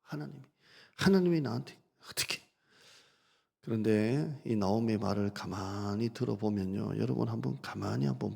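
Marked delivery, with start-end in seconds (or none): 0.0-2.4 rising reproach toward God; a hint of a wounded complaint building; a bitter cry of "why me"; mock resentment. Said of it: "하나님을 향한 원망이 있잖아요".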